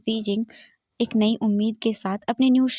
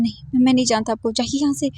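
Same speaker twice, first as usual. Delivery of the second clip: loud, fast frantic denial; shouting; 2 semitones higher, 4 dB louder, faster than usual. Acted. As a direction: shout him out, quickly. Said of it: "वी जिंग बहुत ही कसकर चिल्लाता है". (तेज़, ज़ोरदार इनकार भरी चीख)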